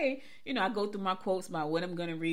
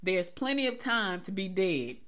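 slow, spaced-out delivery; measured, drawn-out punchline; deliberate quote reading; slower than usual. Real, not acted. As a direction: stretch the words and let the quote land. Announces and reads out the quote.

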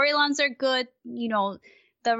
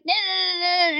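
mock nonstop chatter; 6 semitones higher than usual. Host mimics commentators who won't stop talking, mock chatter. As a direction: imitate endless babble, pitched up. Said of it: "shutting up. It's just like".

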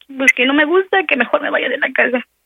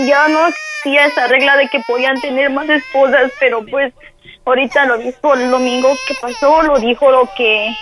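talking through tears; choking up while explaining to mom; acted crying. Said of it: "deja de estar llorando".

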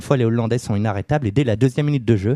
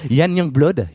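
Dutch accent; 4 semitones higher, 3 dB louder, slower than usual. Shown as a demonstration. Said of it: "mon accent va parler".

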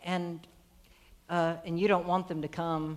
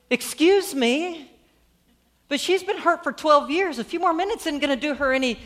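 higher, louder exasperated interruption; annoyed; 6 semitones higher, 5 dB louder than usual. Acted. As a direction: cut in as an impatient, annoyed father. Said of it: "may be a little bit annoyed".

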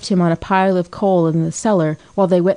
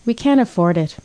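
ordinary delivery, nothing marked

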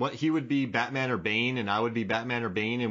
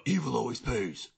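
throaty Batman. Retold or imitated. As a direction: growl it like Batman. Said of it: "The throaty Batman".

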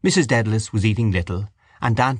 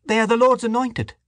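put-on high, stern old woman; pious scolding woman. A narrator's reading. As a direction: rebuke them piously. Dante defending priests.

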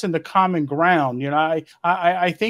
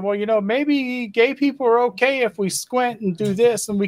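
mocking Pope voice; 6 semitones higher than usual. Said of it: "the Pope saying".

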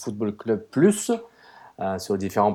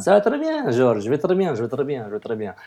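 put-on Portuguese accent; 4 semitones higher than usual. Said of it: "Avec mon accent, euh, très pro-portugais".

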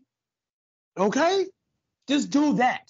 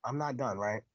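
"I'm not done" dropped much softer, "not" still leaned on; softer repeat; 9 semitones lower, 10 dB quieter than usual. Shown as a demonstration. Host quietly repeating that he is not finished, much softer. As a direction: murmur "I'm not done" to yourself, "not" held. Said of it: "'Cause I'm not done".

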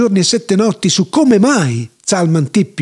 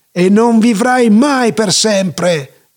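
slow, drawn-out exclamation; mildly raised, stretched-out cry; emphatic exclamation; slower than usual. Acted. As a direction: proclaim it slowly, like a taunt. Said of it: "esclamò Sender Ciuco".

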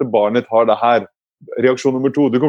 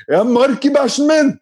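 put-on high, slow child's holler; drawn-out kiddie announcement; imitated small son; 13 semitones higher than usual. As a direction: call it out like an alarmed little boy. Son calling out alarming news.

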